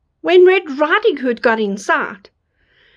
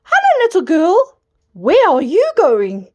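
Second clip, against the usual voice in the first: wolf voice; 4 semitones higher than usual. Acted. Wolf greets the girl.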